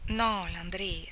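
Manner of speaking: slow, held-back tearful no; a touch of sobbing, slow; understated sobbing. Acted. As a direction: drag it out as if choking on tears. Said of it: "rispose la ragazza singhiozzando".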